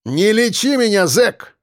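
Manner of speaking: high, firm rebuke; cutting retort. A narrator's reading. Defender rejecting the convict's excuse, cutting retort. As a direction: cut him off. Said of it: "отрезал я".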